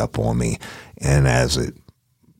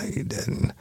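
breathless disbelief; 13 semitones higher, 8 dB quieter than usual. Retold or imitated. Inner dread at friend's deed.

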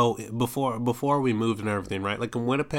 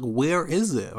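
frustrated; 5 semitones higher, slower than usual. Retold or imitated. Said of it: "I'm getting frustrated right now".

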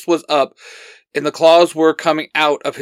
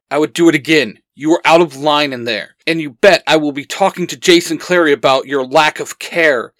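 firm, louder scolding; barking; 3 dB louder than usual. Acted. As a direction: dress him down hard. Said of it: "Xander barks".

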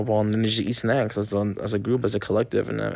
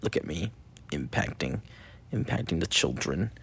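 self-mocking; 4 semitones lower, 7 dB quieter than usual. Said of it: "I was like".

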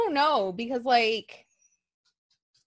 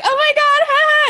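mock giggle; 7 dB louder than usual. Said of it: "I thought we'd be like".

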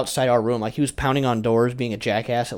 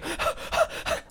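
exhausted sigh; 9 dB quieter than usual. Retold or imitated.

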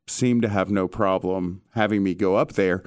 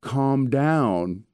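a hint of the mobster's voice, higher; Paulie getting defensive; 4 semitones higher than usual. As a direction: brush it off, a touch edgy. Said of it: "And he's like".

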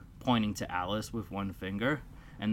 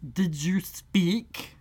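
slow, prim, higher mouse; a touchy little mouse asking; 10 semitones higher, 5 dB louder, much slower than usual. Acted.

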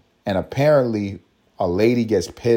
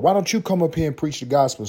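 mock preacher; 5 semitones higher, faster than usual. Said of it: "That's how he sounded".

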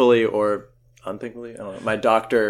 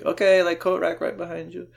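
high-pitched nurse impression; imitated nurse; 8 semitones higher than usual. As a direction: give instructions in a high nurse voice. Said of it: "She had, like, crazy accents".

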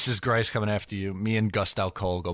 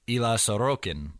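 name said in a put-on accent with an attempted rolled R. Shown as a demonstration. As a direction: try the accent on Ilya Sorokin, rolling the R. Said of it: "You like that accent?".

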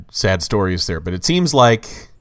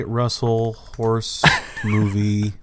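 whispering; 2 semitones lower, 6 dB quieter, slower than usual. Real, not acted. Muttering while searching online.

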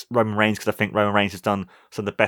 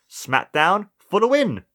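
excited hype; 6 semitones higher than usual. Real, not acted. Hyping the show.

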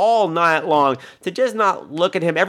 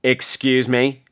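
tag offended disbelief; much slower than usual. Retold or imitated. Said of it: "the slow turn, she's just like".

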